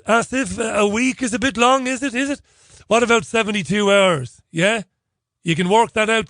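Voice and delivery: lightly acted one-sided phone call with pauses for replies; chatty, matey caller, voice lifted a little; Bob Newhart phone routine. Comic phoning up Asif for a favour, lightly acted matey phone voice. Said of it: "I feel a bit of Bob Newhart coming on here".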